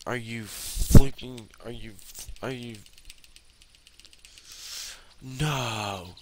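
high, incredulous angry protest; exasperated outburst. Real, not acted. Player balking at the game, exasperated outburst. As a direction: blow up in loud, high-pitched disbelief. Enraged at the game's restriction.

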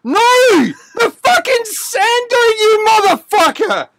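high, heated exasperation; exasperated rebuttal. Real, not acted. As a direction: protest indignantly, pitch flying up. Heated argument over film.

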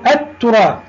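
التراث with no l and a doubled t; silent lam. Shown as a demonstration. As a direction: demonstrate التراث stripped of its first lam, t held. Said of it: "نبعد اللام المكسورة هذه ونقول". (نطق «التراث» بلام صامتة وتاء مشددة)

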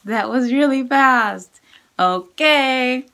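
ordinary talk

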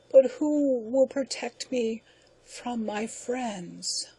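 very slow, fading, broken last words; dying last words. Acted. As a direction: gasp out the final proverb. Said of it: "to hear the creature's last words".

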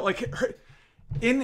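ordinary talk, nothing marked

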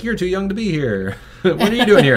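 high, hammed-up New York accent; a loud, high New York greeting, mock imitation. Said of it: "like, a thick New York accent".

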